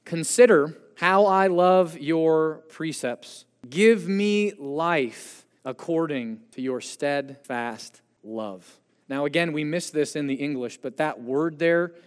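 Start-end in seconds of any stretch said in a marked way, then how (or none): 0.0-8.8 slow scripture reading. Real, not acted. Reading the psalm aloud.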